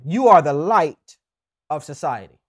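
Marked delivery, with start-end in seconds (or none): 0.0-1.2 "are" punched, louder; stress on ARE. Shown as a demonstration. Pastor breaking down the verse, leaning on "are". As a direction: hit "are" hard and slow. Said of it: "So let's break it down".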